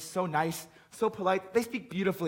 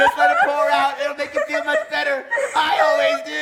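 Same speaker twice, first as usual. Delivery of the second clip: weepy laughter; 5 semitones higher, 4 dB louder than usual. Acted. Everyone weeping together at dinner.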